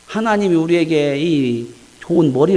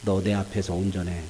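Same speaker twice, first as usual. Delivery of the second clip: God scolding; 12 semitones lower, 11 dB quieter than usual. Acted. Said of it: "아주 혼내요".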